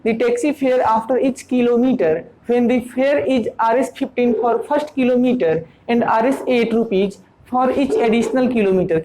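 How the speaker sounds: slow, deliberate dictation pace; reading aloud. Shown as a demonstration. Teacher reads the taxi problem to students, slow and careful. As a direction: spell out the problem slowly for the class.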